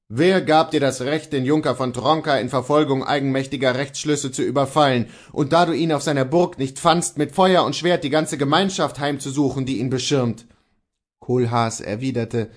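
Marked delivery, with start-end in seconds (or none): 0.1-10.5 louder, stern reproach; Luther rebuking. Acted. Luther accusing Kohlhaas, louder and stern. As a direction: scold him for his crimes.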